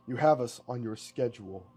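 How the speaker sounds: measured, even hypnotic command; a touch of mind-control intonation; eerie suggestion. Acted. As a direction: plant the idea as if it were fact. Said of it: "The words echo, sounding strange in the ear".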